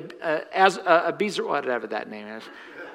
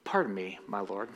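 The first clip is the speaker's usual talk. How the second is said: much softer, lower Pardon me, my lord; soft, lower, amused Gideon; savored repeat; 8 semitones lower, 10 dB quieter than usual. Shown as a demonstration. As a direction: relish the line quietly. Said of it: "I love those replies".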